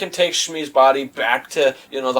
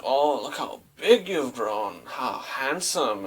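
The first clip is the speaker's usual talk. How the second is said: slow, much softer, fading mother's voice; soft dying words; 7 dB quieter, slower than usual. Retold or imitated. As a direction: let it fade like a dying mother. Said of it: "She's like".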